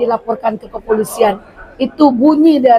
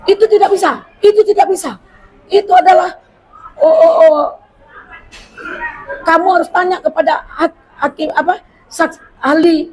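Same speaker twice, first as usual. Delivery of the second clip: high-pitched mock objection from a domineering judge; imitated angry judge; 4 semitones higher than usual. Lawyer mimics the judge who snapped at him in court, high and overbearing. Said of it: "intonasi tinggi, ngegas".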